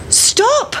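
high called-out stop; shout. Acted. Mother chasing the pancake, high calling shout. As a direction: call after the runaway pancake. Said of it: "shouted the mother".

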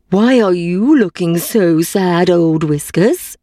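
slow, kindly donkey voice; a hint of a gentle donkey. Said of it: "said the donkey".

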